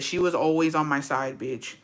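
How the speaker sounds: softening at the end, holding emotion back; getting emotional. Real, not acted. Niece remembers her late aunt, getting emotional. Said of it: "Me getting emotional".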